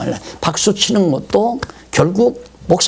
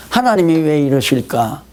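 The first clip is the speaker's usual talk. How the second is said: humble wondering. Retold or imitated. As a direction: wonder calmly at God's plan. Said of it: "그러면 지혜가 점점 열리잖아요". (차분하고 겸손한 물음)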